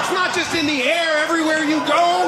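high, drawn-out exasperated rant; exasperated yell. Acted. Son to mom on the phone, high exasperated mock yell. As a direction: wail it high in hammed-up disbelief.

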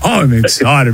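lightly imitated catchphrase of excitement; Big Kev. Host teases excited caller with a catchphrase, light impression. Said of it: "You sound like Big Kev".

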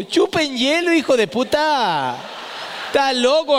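high indignant yelp; outraged outburst. Retold or imitated. Father outraged at ice cream price, high yelp. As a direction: blurt out in comic outrage.

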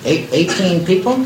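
nervous stammering into a phone; phone call voice. Acted. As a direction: play the game executive on the line. One-sided phone call with Doubleday.

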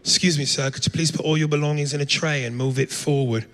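polite British airport security voice; prim, proper British politeness; mock British officer asking nicely; British accent. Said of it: "they all had British accents".

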